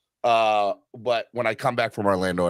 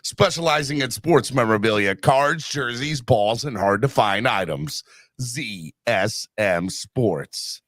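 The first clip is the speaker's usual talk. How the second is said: sponsor read, measured pace; announcer reading the sponsor spot; 3 semitones lower, slower than usual. Acted. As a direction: sell it like a radio spot.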